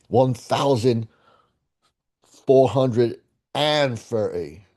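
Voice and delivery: slow, deliberate British-style "one thousand four hundred and thirty"; mock British number reading. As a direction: spell out the "and" like a Brit, slowly. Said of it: "say it the way they like to say it over there".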